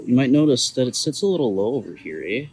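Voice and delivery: broad Midwest accent, "eh" on the end; thick Midwest accent. Shown as a demonstration. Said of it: "I'm laying on my Midwest accent thick".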